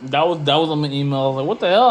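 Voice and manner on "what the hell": Chicago guy. Retold or imitated. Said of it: "sounding like some motherfuckers from Chicago".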